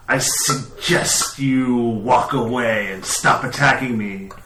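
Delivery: slow, menacing hiss. Acted. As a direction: draw the words out with hissed s sounds. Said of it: "turns to you and hisses and says".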